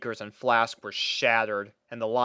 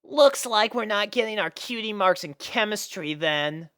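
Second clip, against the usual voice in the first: dejected; 9 semitones higher than usual. Acted. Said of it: "said Scootaloo dejectedly".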